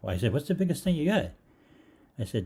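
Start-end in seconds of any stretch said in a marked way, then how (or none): 0.3-1.3 high, loud, pushy demand; demanding shout. Retold or imitated. Customer shouting his order at the window. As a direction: insist on the biggest, pitch way up.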